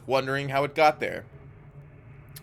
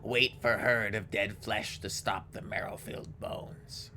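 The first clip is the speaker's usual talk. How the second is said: raspy hungry ghoul; slower than usual. Acted. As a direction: growl it like a starving ghoul. GM voices ghoul Akaste.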